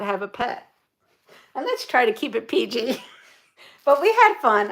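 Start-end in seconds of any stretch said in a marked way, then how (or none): 3.4-4.7 higher voice with a laugh leading in; laugh, then talk through it. Real, not acted. Remembering a fun night with friends, laughing. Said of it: "I'm laughing".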